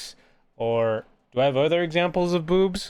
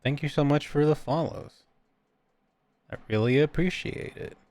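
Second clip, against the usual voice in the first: Markiplier impression. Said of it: "I could have done the Markiplier impression".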